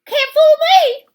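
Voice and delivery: very high, loud smug principal. Acted. Principal hanging up the phone, very high and smug. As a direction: crow it smugly.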